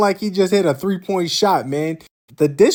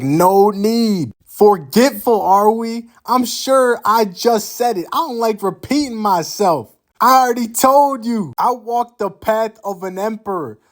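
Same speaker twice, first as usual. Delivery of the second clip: condescending emperor; 6 semitones higher than usual. Retold or imitated. Qin scolding Brunhilde, voiced.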